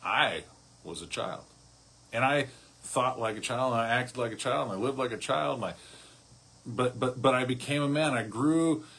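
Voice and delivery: "I" stressed, rising in pitch and volume to a triumphant "I matured"; stress on I, building. Shown as a demonstration. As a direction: build each "I" up to the man he became. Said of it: "The emphasis going from child, to him".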